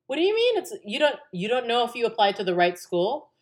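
high, loud disbelieving question; imitated incredulous mom. Mom questioning daughter's doubt, incredulous.

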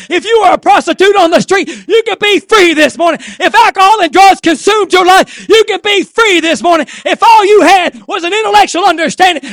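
preaching that builds to a loud, high shout; fired-up preaching. Real, not acted. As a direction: drive it up into full-force revival preaching. Preaching that builds to full force.

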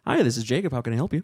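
a touch of polite phone-agent cheer; lightly put-on call center greeting; customer service voice. Shown as a demonstration. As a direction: answer the phone like a helpful agent. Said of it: "Can we hear your customer service voice?".

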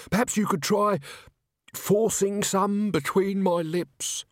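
high, drawn-out character voice; Tommy, wheedling patient. A narrator's reading. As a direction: play the feeble patient, slowing right down. Injured Tommy angles for brandy.

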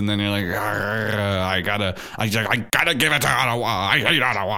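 high mocking whine at rival fans. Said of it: "I'm like".

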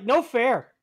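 put-on creepy kid voice. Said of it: "the little creepy ass voice".

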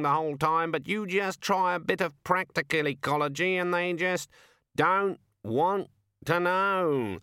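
a put-upon raven moaning; grumbling raven. Acted. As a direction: raven grousing to the Death of Rats. Raven complains.

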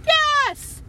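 high, loud eager yes; excited yes. Retold or imitated. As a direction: shout it like an overeager yes man. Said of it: "that movie Yes Man".

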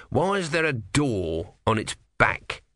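slow, puzzled tortoise voice. Acted. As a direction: ask slowly like a puzzled tortoise. Tortoise voice in narration.

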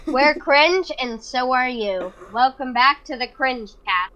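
slow hyped channel opener; YouTuber intro. Pretend. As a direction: drawl it like a cheesy intro. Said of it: "what about you're cringe and I'm not".

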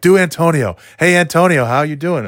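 egging him on to do the voice; eager friends. Retold or imitated. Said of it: "these guys would be like".

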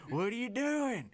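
high, drawn-out holler across the track; imitated yelling coach.

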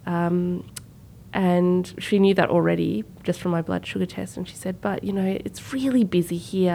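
calm reassurance. Retold or imitated. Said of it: "she's very calm".

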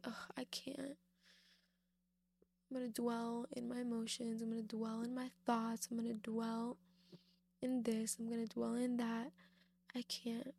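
a hint of a defeated moan; mock whiny excuse. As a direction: lightly mimic a stubborn refuser. Preacher mimics a stuck, whiny believer.

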